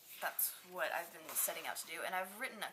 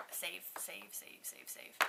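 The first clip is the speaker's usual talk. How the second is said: whispered mantra; 8 dB quieter, slower than usual. Real, not acted. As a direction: whisper "save" over and over, fading. Chanting a money-saving mantra.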